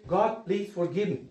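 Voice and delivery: a quiet, humble plea to God; soft prayer. Shown as a demonstration. Preacher showing the congregation a soft plea for forgiveness. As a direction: say it softly, as a simple first prayer. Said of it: "you just need to say".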